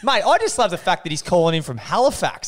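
laughing. Real, not acted. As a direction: chuckle along as you talk, delighted. Amused by the Halifax caller.

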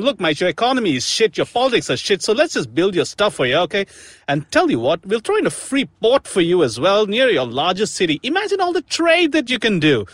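put-on, lively Australian accent with swooping pitch; mock Australian accent. China wooing Pakistan with a port deal, mock Australian accent. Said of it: "again in Australian accent for some reason".

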